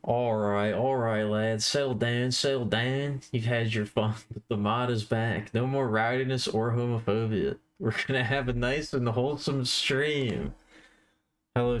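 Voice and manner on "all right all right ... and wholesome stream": mock Cockney moderator; Cockney accent. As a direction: put on a rough Cockney accent. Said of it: "I got the Cockney accent right?".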